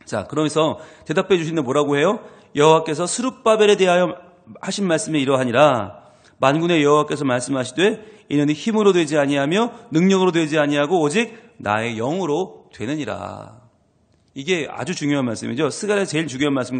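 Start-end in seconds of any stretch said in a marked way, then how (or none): 2.6-13.7 louder solemn verse, slowing at the end; scripture reading. Acted. Reads scripture aloud. (장엄하게 천천히 선포하듯)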